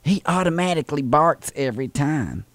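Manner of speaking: put-on Southern old lady voice; sweet old lady caller, fussy and polite. Prank caller playing Thelma to the postal clerk, sweet old lady voice.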